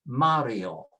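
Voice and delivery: Mario as MAH-ryo, weight on MA; next-to-last stress. Shown as a demonstration. Teacher shows a name without an accent, stress next to last. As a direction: stress the first syllable of Mario. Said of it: "is pronounced with next to the last".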